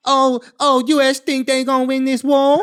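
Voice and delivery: put-on Vietnamese accent, jeering; mock Vietnamese accent. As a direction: taunt in a badly faked Vietnamese accent. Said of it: "y'all know what they were talking about".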